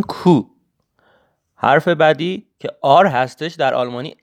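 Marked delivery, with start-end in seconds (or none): 0.0-0.4 کو alone as "koo", higher, for repeating; German letter Q. Shown as a demonstration. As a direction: model کو with a pure long oo. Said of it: "دوستان تکرار بکنن".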